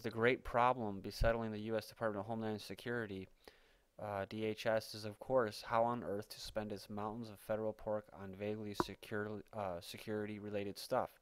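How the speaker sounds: steady, measured reading of a written report; article read-aloud. Acted. Reading a speculative article to listeners, news-story narration.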